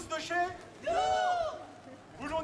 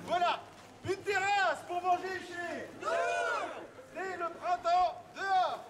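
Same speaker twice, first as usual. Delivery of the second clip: town crier; 4 semitones higher, slower than usual. Acted. Town crier reads message.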